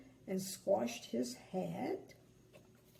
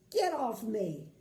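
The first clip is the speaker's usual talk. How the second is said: shouted; 4 dB louder than usual. Acted. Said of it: "shouted Mister Grumpy".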